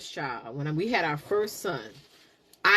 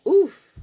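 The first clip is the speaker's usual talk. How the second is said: sharp, high, loud oof; a sudden jolt of labor pain; 10 semitones higher, 11 dB louder than usual. Retold or imitated. Recalling the first labor pressure, pained oof.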